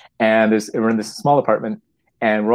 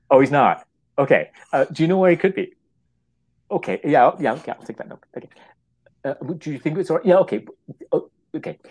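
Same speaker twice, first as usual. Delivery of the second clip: flustered caller on the phone; 3 semitones higher than usual. Retold or imitated. Caller's side of phone call.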